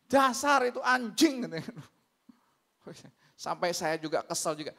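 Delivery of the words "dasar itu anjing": slow, drawn-out mock curse; retold angry cursing. Congregant cursing the neighbour on the phone, mock angry. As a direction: imitate an enraged man swearing. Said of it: "keluar kata-kata anjing dia".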